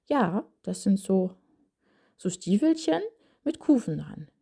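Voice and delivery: lightly voiced small child, pitch jumping up on Stiefelchen; a hint of a small child explaining skates. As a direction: play a child answering eagerly. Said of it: "Könnte das Kind sagen".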